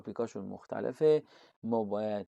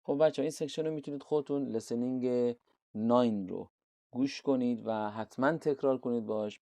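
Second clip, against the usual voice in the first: normal talking voice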